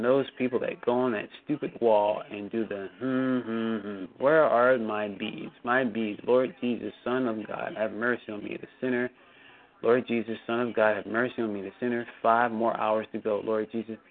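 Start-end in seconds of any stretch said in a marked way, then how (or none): 3.0-14.0 mock bead-counting prayer. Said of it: "and he's talking like this".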